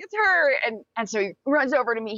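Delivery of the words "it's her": put-on high chorus of pointing girls; imitating the girls. The girls single out the new girl, high and eager. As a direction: say it like everyone pointing at once. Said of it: "everybody's like".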